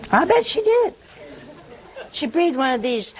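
high laughing aside. Real, not acted. Preacher laughing at his own joke about Elizabeth, high and loud.

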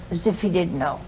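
ordinary talk

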